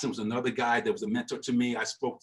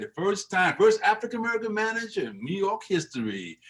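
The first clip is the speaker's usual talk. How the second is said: put-on higher, proud old-timer's voice; Buck O'Neill impression; 7 semitones higher than usual. The old mentor hailing a historic first, higher proud voice. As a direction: lift it up with pride in the milestone. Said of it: "that's the Buck O'Neill impression".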